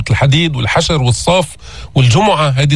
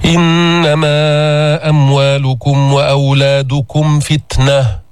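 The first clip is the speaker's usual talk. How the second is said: slow, measured tajweed recitation; Quran recitation; much slower than usual. Shown as a demonstration. Teacher recites the verse for the class. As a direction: chant the verse slowly and carefully.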